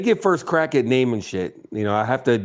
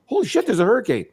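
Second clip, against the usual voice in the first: quick, higher mock panic; mock alarm; 9 semitones higher, faster than usual. Retelling how Dono freaked about the hurricane, quick mock panic. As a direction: imitate the friend freaking out, quickly. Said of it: "he goes".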